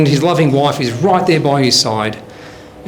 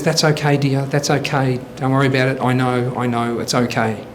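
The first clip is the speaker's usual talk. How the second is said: soothing; 3 semitones lower, 4 dB quieter than usual. Acted. Wife soothes confessing husband again.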